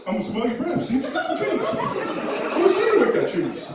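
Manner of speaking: put-on very high-pitched drunken threat; drunk complainer. Drunk man threatening to sniff out the thief, very high-pitched. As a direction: squeal out a tipsy accusation. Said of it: "That's what he sounds like".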